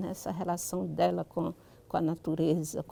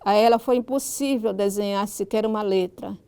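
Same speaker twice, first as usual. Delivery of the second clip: literary reading aloud; 3 dB louder than usual. Acted. Writer reads a passage from her book to listeners, reading aloud. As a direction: read the story out in measured, carefully articulated phrases.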